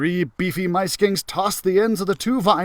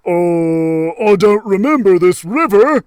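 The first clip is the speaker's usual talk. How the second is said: sheepish admission; 8 dB louder than usual. Acted. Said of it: "Crusher admitted".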